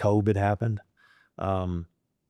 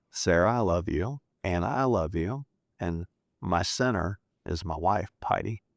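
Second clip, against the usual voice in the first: choked up. Real, not acted. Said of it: "It's all coming out the eyes today".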